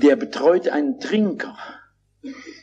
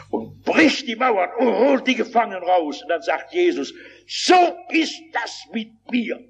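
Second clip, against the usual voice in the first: high-pitched, declamatory preaching; raised preacher's voice with weighty pauses; 6 semitones higher than usual. Real, not acted. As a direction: proclaim it to a whole congregation. Proclaims a parable in preaching tone.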